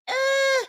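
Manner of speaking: high, held "eh"; noncommittal eh. Real, not acted. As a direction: lukewarm high-pitched noise of doubt. Unimpressed verdict on a cast member.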